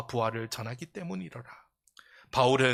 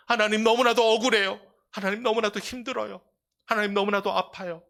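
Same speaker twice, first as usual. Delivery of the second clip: mild lament; 8 semitones higher, 5 dB louder than usual. Acted. Lament of suffering in prayer.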